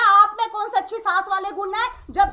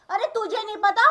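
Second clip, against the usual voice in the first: normal talking voice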